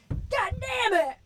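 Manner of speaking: high, drawn-out strained cry, held back in volume; mock tearful outburst. Imitating the actor turning from the camera, mock crying. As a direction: fake being about to cry, stretched out high. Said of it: "and then walks off crying".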